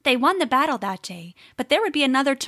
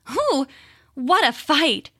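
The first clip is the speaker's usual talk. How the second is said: mock out of breath, higher; fake panting; 4 semitones higher, 3 dB louder, slower than usual. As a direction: pretend to be worn out from fighting. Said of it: "panting as though she were very tired".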